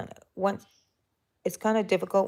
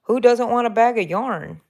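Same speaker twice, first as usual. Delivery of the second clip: louder, bright mock eagerness; eager heck yeah; 5 semitones higher, 6 dB louder than usual. Crocheter replays eagerly accepting a free yarn bag. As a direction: grab it like a kid at a giveaway. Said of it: "I'm like".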